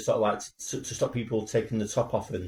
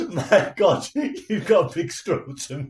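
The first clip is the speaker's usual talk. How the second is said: mock admirer; 8 semitones higher, 4 dB louder, slower than usual. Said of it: "when someone says to you".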